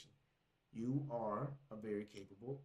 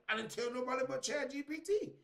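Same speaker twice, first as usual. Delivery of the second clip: high-pitched, baffled protest; mock bewildered protest; 10 semitones higher than usual. Exposed user protesting the leak, mock bewildered. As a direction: plead innocence in a pitched-up voice.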